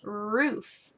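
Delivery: stretched-out word with a lingering first sound; careful teacher enunciation; modeling a word. Shown as a demonstration. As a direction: draw it out clearly for a learner.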